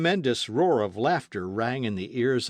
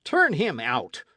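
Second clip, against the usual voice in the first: crowd roar; 3 semitones higher, 5 dB louder than usual. Acted. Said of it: "roared the exasperated crowd".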